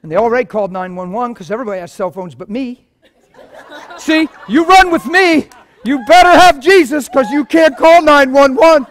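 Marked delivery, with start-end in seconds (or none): 4.0-8.9 slow, loud, higher talk through laughter; laughing. Real, not acted. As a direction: tease them while laughing at himself. Joking about his cell phone.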